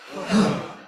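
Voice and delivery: loud, forceful exhaled huh; powerful huh. Shown as a demonstration. Leader exercising the group's voices, forceful huh. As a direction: push the breath out in one burst. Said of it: "with a powerful".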